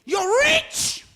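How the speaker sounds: high, loud and slow preaching shout; preaching at full force. Acted. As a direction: drive it home to the congregation. Preaching peak on supermarket secret.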